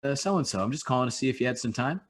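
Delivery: polite cold-call voice, lilting up at the end; phone voice. Shown as a demonstration. Rep demonstrating a sales call to a stranger, phone voice. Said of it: "like a rise up an inflection".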